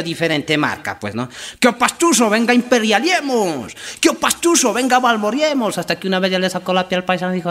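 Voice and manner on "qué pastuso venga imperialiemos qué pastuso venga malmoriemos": high, loud teasing call; mocking paisa. Paisa taunting the pastuso, high loud mocking call. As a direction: taunt him like a cocky paisa.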